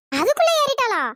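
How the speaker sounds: loud, high amazed question; surprised. Acted. Woman amazed that the girl already climbed, surprised. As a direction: gasp it out in disbelief.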